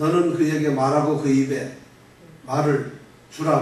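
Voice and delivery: choppy, halting reading with breaks in odd spots. Showing how a bible verse sounds read without understanding: halting, pauses in wrong places. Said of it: "이렇게 읽으면 무슨 말인지 이해가 안 되잖아요".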